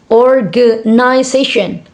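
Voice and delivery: organization lightly separated into beats; syllable by syllable. Shown as a demonstration. Teacher showing five syllable word, syllable by syllable. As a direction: gently mark the syllables of organization. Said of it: "five syllable words".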